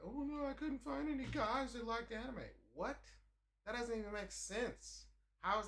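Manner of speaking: high, put-on whiny girl voice; mock whiny woman. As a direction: complain in a pitiful falsetto. Imitating women at cons.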